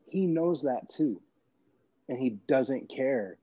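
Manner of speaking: slow sincere realization. Retold or imitated. Recalling the thought that changed him, slow and sincere. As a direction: let the realization land slowly.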